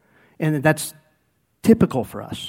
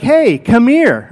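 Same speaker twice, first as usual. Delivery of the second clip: calling someone over; 5 semitones higher, 6 dB louder, much slower than usual. Retold or imitated. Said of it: "we'd be like".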